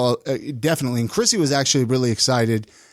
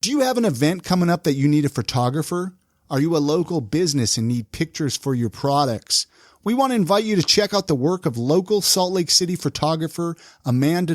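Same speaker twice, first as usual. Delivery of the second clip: ad read. Acted. Sponsor ad read.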